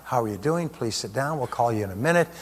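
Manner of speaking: a lightly voiced friendly front desk; cheerful receptionist. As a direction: greet the patient kindly and gently. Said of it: "everybody's cheerful".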